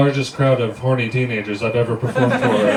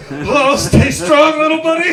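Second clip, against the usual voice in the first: high voice; 7 dB louder than usual. Acted. Father reassuring captive son.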